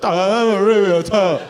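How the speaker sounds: slow, hammed-up Chinese accent; mock Chinese accent. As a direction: say it with a thick, cartoonish Chinese accent. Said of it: "I wish she had more of an accent".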